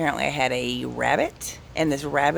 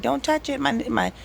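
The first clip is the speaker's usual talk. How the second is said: much higher, urgent don't-touch-it plea; pitched way up in alarm; alarmed warning; 9 semitones higher than usual. Retold or imitated. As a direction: yelp it out like a sudden panic. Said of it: "And I was like".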